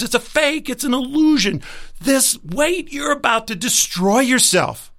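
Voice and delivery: a hint of a scolding ego that climbs into alarm; nagging ego rising to a mild mock panic; the ego's voice. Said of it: "your ego kicks in and says".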